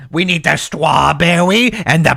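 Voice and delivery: lightly voiced baby-talk puppet; a hint of babyish lisp. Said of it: "like, that baby talk".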